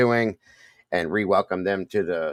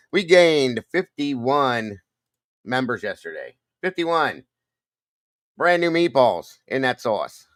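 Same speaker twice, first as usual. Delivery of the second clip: excited news; 5 semitones higher, 4 dB louder, slower than usual. Real, not acted. Announcing new members.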